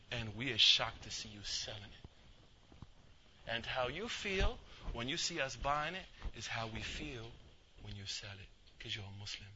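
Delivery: slow, low, hushed confrontation; imitating a solemn, gentle rebuke; grave reproach. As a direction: let each phrase land softly and slowly. Brother gravely confronts Muslim seller.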